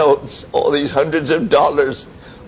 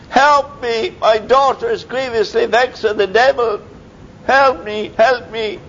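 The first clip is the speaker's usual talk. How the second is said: higher, pleading mother's voice; pleading woman; 10 semitones higher than usual. Retold or imitated. The Canaanite woman begging Jesus for her daughter, pleading. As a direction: beg for your daughter's sake.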